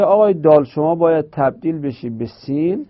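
mildly voiced sin making demands; voicing the letter sin. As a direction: play the letter sin lightly insisting. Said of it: "سین گفتش که". (سین با لحنی کمی طلبکار)

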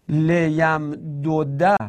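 ل یم دو ده slowly, as le-yam-do-da; form before merging. Shown as a demonstration. Teacher shows the word before merging, dals apart. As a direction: keep the two dals apart, ending open on "da". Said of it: "این اصلش چی بوده".

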